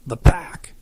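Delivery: a loud, clipped retort; snapped. Acted. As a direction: bite off the answer impatiently. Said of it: "he snapped".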